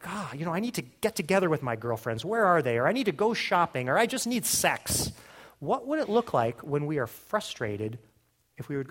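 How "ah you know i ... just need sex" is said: huffy, acted-out frustration; mock frustration. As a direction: act out a mildly fed-up complaint. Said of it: "We're frustrated and we're like".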